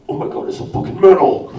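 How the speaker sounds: loud, laughing wrestling roar; wrestler promo voice. Retold or imitated. Comparing the trailer line with the wrestler version, loud laughing roar. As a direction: shout it like a hammed-up wrestler. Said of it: "originally the voice was gonna be".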